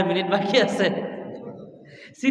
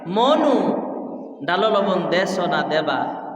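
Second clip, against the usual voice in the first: Barisal dialect. Retold or imitated. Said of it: "Barishal যাবেন".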